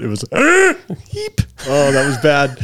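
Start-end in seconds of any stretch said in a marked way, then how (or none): 0.2-1.0 high-pitched snorting laugh; a squeaky little snort laugh. Real, not acted. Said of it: "that high-pitched laugh I just did". 1.1-1.4 high squeaky snort sound; squeaky laugh. Shown as a demonstration. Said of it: "my version of a snort".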